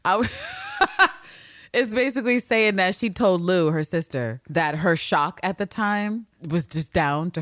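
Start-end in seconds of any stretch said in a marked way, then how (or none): 0.3-1.2 squeaky high burst of laughter; real giggle. Real, not acted. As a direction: laugh so hard it goes up high. Laughing mid sentence.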